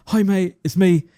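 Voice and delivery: lightly mimicked panting urgency; out of breath. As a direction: imitate an urgent phone call made on the run. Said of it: "he's, like, severely out of breath".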